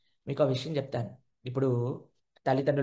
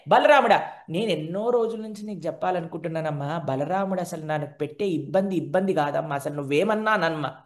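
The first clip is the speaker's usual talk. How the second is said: acting child. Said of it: "ఏం acting అండి".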